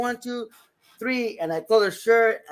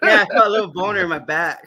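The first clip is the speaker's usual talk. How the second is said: laughing; 6 dB louder than usual. Real, not acted. Joke while laughing.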